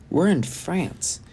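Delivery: high, slow, amazed; breathless wonder at the sight; astonished. A narrator's reading. Dawning realization.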